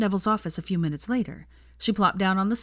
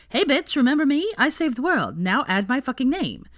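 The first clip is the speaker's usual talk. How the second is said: loud, high mock taunt; mock confrontation; 8 semitones higher, 5 dB louder than usual. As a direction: wave it in his face, brash.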